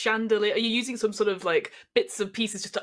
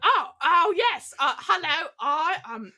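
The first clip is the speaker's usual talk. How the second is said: Jason Statham; 8 semitones higher, 4 dB louder, slower than usual. Acted. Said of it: "And Jason's like".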